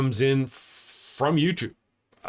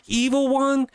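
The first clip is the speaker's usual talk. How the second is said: bossy call; 5 semitones higher than usual. Retold or imitated. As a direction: call out then command. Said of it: "I say".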